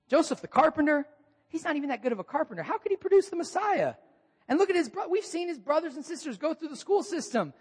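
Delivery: high, mocking gossip voice; scoffing townsfolk. Preacher voices the hometown crowd doubting Jesus, mocking. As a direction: scoff like a small-town skeptic.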